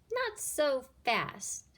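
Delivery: slow, lightly menacing witch teacher; hissed warning. Acted. New teacher stopping the kids, slow hiss. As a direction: drag it out, unpleasantly. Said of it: "hissed an unpleasant voice".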